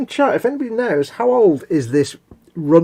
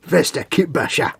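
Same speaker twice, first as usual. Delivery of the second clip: mock grand title. Announcing orc name.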